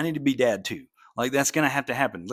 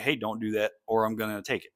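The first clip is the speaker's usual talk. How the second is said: calm; 4 dB quieter than usual. Retold or imitated. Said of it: "I was just calmly like".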